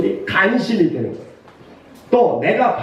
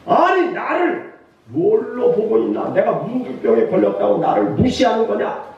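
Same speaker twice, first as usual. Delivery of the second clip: acted wounded pride, pitch swinging; indignant; 3 semitones higher than usual. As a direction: play an offended general taking umbrage. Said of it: "아주 화가 나서". (자존심 상해 화난 듯이)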